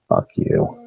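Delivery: voiceless retold curse; barely voiced, as if only mouthed; mouthed at them. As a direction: act out silently mouthing an insult. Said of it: "we mouthed at 'em".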